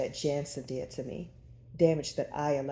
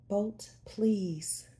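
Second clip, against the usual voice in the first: high pleading cry; 6 semitones higher, 4 dB louder than usual. Acted. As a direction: beg him, louder and higher. Heroine pleading with lover.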